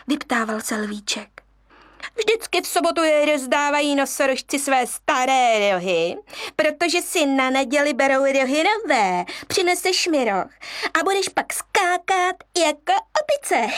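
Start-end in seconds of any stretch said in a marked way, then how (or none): 2.1-13.7 a monkey fooling the lion cub; scheming monkey. Acted. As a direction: sell the lie cheerfully.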